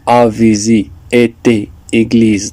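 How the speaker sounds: "aviser, été, église" as examples, é leaning towards I; accent aigu as I. Shown as a demonstration. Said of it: "je le prononce comme I".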